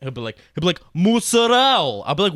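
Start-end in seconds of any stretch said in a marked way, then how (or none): 0.9-2.0 loud, high, drawn-out Italian flourish; hammed-up slow Italian accent; mock Italian accent. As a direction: stretch MOZZARELLA like a show-off Italian. Mimics coworker's Italian pronunciation.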